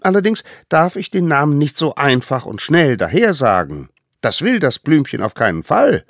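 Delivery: high, eager little voice; tiny eager hunter. Acted. Little hunter brings food to the mammoth, high and eager. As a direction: play the smallest one, proud and keen. Allerkleinste explains.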